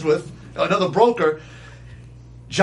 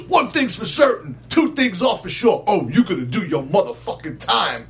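imitating the inmate. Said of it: "He goes".

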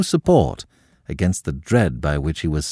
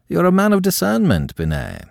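higher, disdainful compliment meant as insult; cold loathing; 11 semitones higher than usual. A narrator's reading. Scaramouche insulting the troupe leader at table, cold loathing. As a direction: let contempt sour the praise. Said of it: "the cold loathing of his voice itself an insult".

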